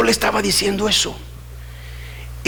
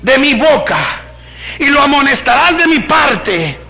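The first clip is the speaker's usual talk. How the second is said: forceful scripture reading; 7 semitones higher, 4 dB louder than usual. Acted. Preacher reading God's warning to the church, forceful. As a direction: preach the verse out, pitched up.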